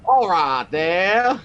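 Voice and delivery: slow, drawn-out Cockney greeting; Cockney accent. Acted. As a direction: stretch it out in thick Cockney. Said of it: "I'll put on my best Cockney accent".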